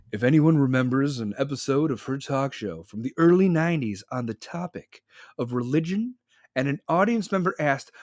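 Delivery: mildly ominous storytelling; lightly mock-ominous announcement. Shown as a demonstration. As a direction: intone it with a touch of foreboding. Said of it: "in an ominous voice".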